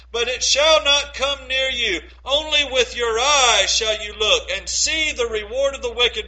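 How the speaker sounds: measured, solemn reading of a psalm; scripture reading. Acted. Preacher reading Psalm ninety-one to the congregation, solemn.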